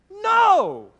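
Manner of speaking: loud, high exclamation; forceful rhetorical no; emphatic no. Real, not acted. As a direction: shout the answer down. Emphatic answer to flat earth.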